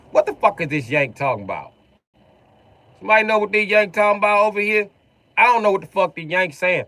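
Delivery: high, loud imitation of confused locals; baffled Floridian. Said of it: "They're like".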